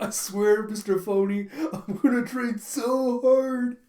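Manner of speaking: fervent vow. Acted. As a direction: swear it with your whole heart. The opponent vows tearfully.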